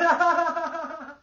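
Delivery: high-pitched helpless laughter; high laughing fit. Real, not acted. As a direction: break into a real laughing fit. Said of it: "If I'm laughing like this".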